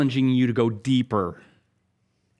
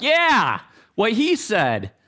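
gung-ho agreement; 8 semitones higher, slower than usual. Acted. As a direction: crow it like an eager sidekick backing the boss. Acting a cheering disciple beside Jesus.

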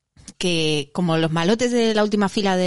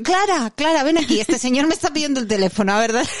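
excited call; 5 semitones higher than usual. Retold or imitated. Calling friend over, amused.

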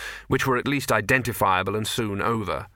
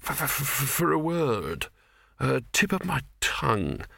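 dreamy stunned; 3 semitones higher, 3 dB quieter than usual. Acted. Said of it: "in a dreamy, stunned voice".

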